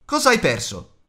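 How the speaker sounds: high, loud shouted question; grido. A narrator's reading. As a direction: call out, demanding to know. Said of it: "gli gridò Bilbo". (domanda urlata a voce alta)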